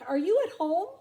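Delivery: high, loud shout into the tree hole; calling out. Acted. Crikey calling into the possum's tree hole, loud and high. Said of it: "Crikey called out".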